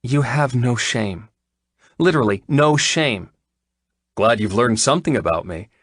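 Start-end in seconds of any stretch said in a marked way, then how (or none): 0.0-3.3 exasperated groan. A narrator's reading. Vet scolds the shameless client, exasperated. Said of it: "She groaned".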